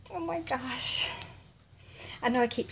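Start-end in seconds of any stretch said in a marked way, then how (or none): 0.1-1.1 high, slow awed exclamation; real overwhelmed delight; too excited. Real, not acted. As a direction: marvel at it, drawn out. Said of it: "I'm just too excited".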